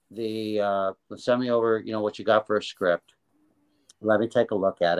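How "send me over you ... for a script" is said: ordinary delivery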